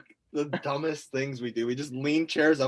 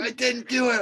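high-pitched mock protest; imitating an indignant denial; 9 semitones higher than usual. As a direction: deny it like a squabbling kid. Acted back-and-forth late-night argument.

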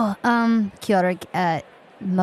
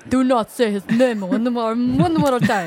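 quoted threat. Retold or imitated. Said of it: "He said that".

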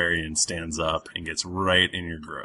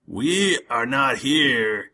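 put-on slow, haughty drunk barbarian; slower than usual. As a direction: talk down like a drunk brute. Drunk barbarian NPC scolding.

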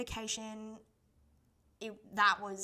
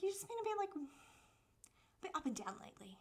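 whispered, careful concern; hushed concern; 7 semitones higher, 5 dB quieter than usual. Retold or imitated. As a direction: breathe it out gently, testing the waters. Sister gently raises a touchy subject.

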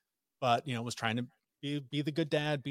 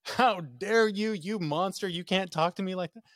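higher, louder, slow offended retort; indignant wife; 7 semitones higher, 4 dB louder than usual. Retold or imitated. Wife scolding her husband for snapping at her, outraged. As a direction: rebuke him in outrage. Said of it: "And she was just like".

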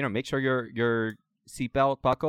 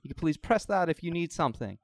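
higher, prim attendant scolding politely; flight attendant; 7 semitones higher than usual. Acted. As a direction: shush the rowdy passengers primly. Attendant scolding rowdy passengers.

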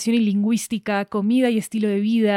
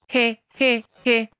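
three separate, deadpan "je" syllables; mechanical mock laugh; slower than usual. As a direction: fake a computer's laugh, syllable by syllable. Computer announcer's spelt-out laugh.

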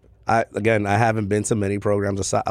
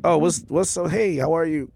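higher-pitched acted small talk; friendly greeting; 6 semitones higher than usual. Customer striking up conversation with bartender, friendly greeting. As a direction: greet them in a lifted, chatty voice.

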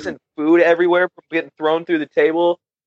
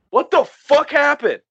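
high, drawn-out baffled question; retold bewilderment; 10 semitones higher than usual. Bystander among broken glass, retold bewilderment. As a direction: stretch it out in mock disbelief.

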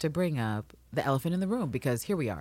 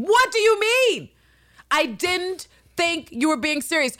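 outraged disbelief; 9 semitones higher, 3 dB louder, slower than usual. Real, not acted. Outraged rant about Mariana's line.

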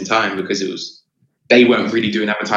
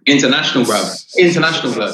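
hyped up; 5 semitones higher, 4 dB louder, faster than usual. Real, not acted. Hyping up friend's international success.

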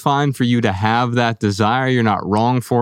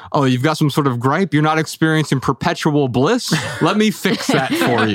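sarcastic fixer. Retold or imitated. Mocking his own fixing habit.

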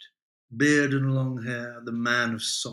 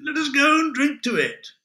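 merry exclamation; 13 semitones higher, 6 dB louder than usual. Acted. Adam exclaims merrily.

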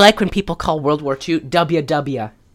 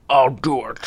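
lightly put-on Scottish movie-star growl; hint at a famous Scottish actor's voice; Sean Connery; 3 semitones lower than usual. Old hero heard from behind a chair, light star impression. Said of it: "Sean Connery's voice, like".

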